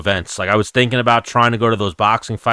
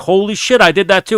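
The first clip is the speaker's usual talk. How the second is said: mock surprised; 10 semitones higher, 4 dB louder than usual. MacGruber's excited reply quoted.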